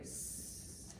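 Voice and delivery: "S" as a long, soft sss; letter sound. Shown as a demonstration. Teacher showing children the letter sound, "S" as long sss. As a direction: sustain the bare hiss for "S". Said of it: "Sounds like".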